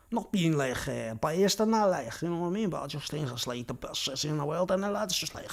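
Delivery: broad, thick Scouse accent; exaggerated Scouse. Shown as a demonstration. Repeating his claim to viewers, exaggerated Scouse. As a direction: lay the Scouse on heavily.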